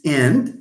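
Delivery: and said in full with stress. Shown as a demonstration. Teacher showing the word in isolation, and fully stressed. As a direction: give and its full stressed form. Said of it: "and stress falls here".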